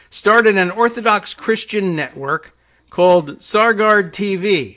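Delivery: slow, high, loud reading; article read-aloud. Real, not acted. Host reading about a network to listeners, emphatic read-aloud. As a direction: announce it with deliberate emphasis.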